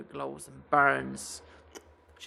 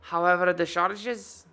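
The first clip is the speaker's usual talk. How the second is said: higher, louder helpful shopkeeper; dwarf smith voice; 4 semitones higher, 5 dB louder than usual. Acted. Dwarf explaining blue bullets to customer, higher and louder. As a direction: explain the glimmer cheerfully. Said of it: "GM as Goldrin explaining".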